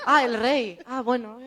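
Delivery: high, loud realization; mock sudden realization; imitating a dawning realization; realizing. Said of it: "y ella en plan".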